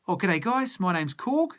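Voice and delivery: a casual Kiwi g'day in the style of Korg; Kiwi accent. Retold or imitated. Host imitating Korg for the chat, light Kiwi accent. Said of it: "It's classic Kiwi humour".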